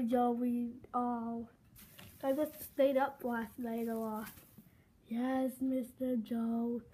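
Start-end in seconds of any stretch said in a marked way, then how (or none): 5.1-6.8 slow, dragging class chant; tired drone. Acted. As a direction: drawl it out like bored pupils. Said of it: "You guys have to say, like".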